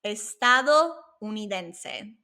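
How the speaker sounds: slow, careful model of "Estadounidense"; slow repeat-after-me. Shown as a demonstration. Teacher leading the class to say it together, slow model. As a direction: stretch out "Estadounidense" syllable by syllable. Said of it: "Let's say it together".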